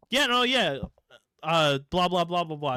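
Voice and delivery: high, loud mock Midwest yeah-no babble; imitating Midwest accent. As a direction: rattle it off like a Minnesotan. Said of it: "That's the Midwest accent coming through".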